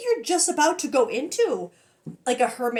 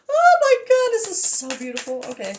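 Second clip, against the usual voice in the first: very high, loud squeal; real squealed amazement; overwhelmed exclamation; 7 semitones higher, 7 dB louder than usual. Real, not acted. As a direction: cry it out, pitched way up. Overwhelmed by the reading.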